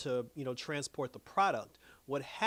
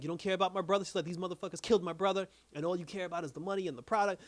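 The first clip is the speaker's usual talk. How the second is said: fast, heated, higher rant; angry rant; 4 semitones higher, faster than usual. Retold or imitated. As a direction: fire it off at the men at the table. Sophia confronting the family.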